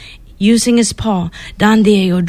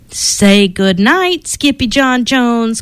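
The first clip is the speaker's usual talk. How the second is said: calling out; 2 semitones higher, slower than usual. Acted. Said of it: "called his mama".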